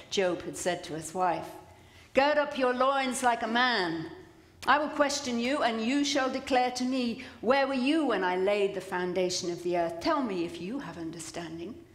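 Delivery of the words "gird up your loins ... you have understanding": God. Acted. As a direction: declaim it as a commanding challenge. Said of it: "And finally, God speaks".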